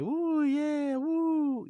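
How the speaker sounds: high, joyful cheering whoop; excited whoop. Retold or imitated. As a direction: whoop like a happy kid on a horse. Cheering while riding the horse.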